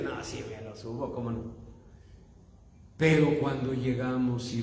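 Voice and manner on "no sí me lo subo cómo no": mock brave. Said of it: "yo dije".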